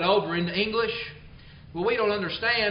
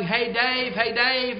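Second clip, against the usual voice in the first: mock yell; 5 semitones higher, slower than usual. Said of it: "that man is yelling".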